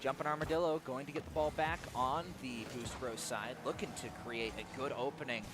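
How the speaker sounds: measured build bursting into a goal call; live play-by-play. Acted. Caster calls the first goal, excited play-by-play.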